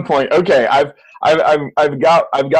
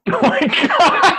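laughing; 14 semitones higher, slower than usual. Real, not acted. Laughing at a pound guess.

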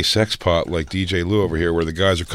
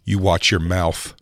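hammy fake Italian phrases; mock Italian accent; 5 semitones higher, much slower than usual. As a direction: ham up a mafia Italian voice.

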